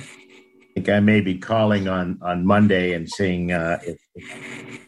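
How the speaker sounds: choppy call audio; buzzy glitchy call audio. Real, not acted. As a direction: voice cutting in and out. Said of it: "your sound is coming in and out".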